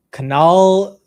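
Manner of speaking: loud mock announcement of canal. Shown as a demonstration. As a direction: belt out canal.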